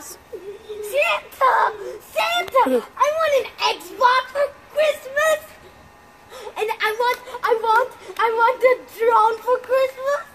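put-on excited kid voice. Child begging Santa for presents.

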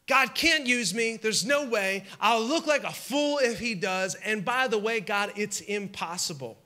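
doubting Sarah. Retold or imitated. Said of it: "Sarah's standing there saying".

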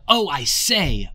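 mock-British exclamation, slow and drawn; a slow, hammed-up upper-class gasp; posh British twins. Twins surrounded by Jack's tribe, mock-British "Oh, I say". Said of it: "it's just so British".

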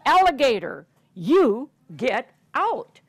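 put-on children chase the monster out; great shout. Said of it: "gave a great shout".

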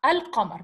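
"al-qamar" with a clearly sounded L; L pronounced. Shown as a demonstration. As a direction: keep the L in "al-qamar" before the Q. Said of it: "you pronounce the L".

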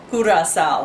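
Curacao said as "koo-da-sow"; island pronunciation. Shown as a demonstration. Vlogger corrects her slip for viewers, Curacao as "koo-da-sow". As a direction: say Curacao with an oo start and tapped r. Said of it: "That's how they say it".

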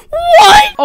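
very high, loud shriek; startled yell. Real, not acted. Player baffled by an opponent's message, startled yell. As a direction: yelp it in shock.

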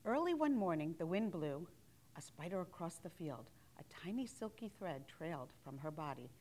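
measured picture-book narration; story reading to children. A narrator's reading. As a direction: read it aloud to little children, phrase by phrase.

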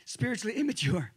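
repeating the right word with a laugh; preacher laughing off his slip; laughing correction. Real, not acted. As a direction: correct yourself, chuckling mid-word. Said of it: "I should say, sorry".

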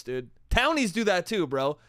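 ordinary talk, nothing marked

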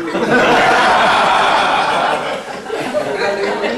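long, loud laughing fit. Real, not acted. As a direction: crack up at the joke. Se ríe del chiste del ticket. (risa larga y fuerte)

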